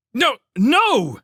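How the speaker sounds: high, loud protest; urgent shout. A narrator's reading. Felix stops the fleeing scouts, shouting. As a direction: shout to stop them at once. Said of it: "Felix shouted".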